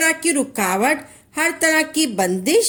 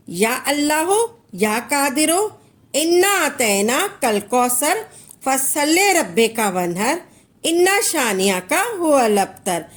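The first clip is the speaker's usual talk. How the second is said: measured devotional recitation, each phrase rising at the end; reciting prayer. Shown as a demonstration. Teacher shows listeners how to recite the verses, in a devotional chant. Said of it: "और ऐसे पढ़ना है".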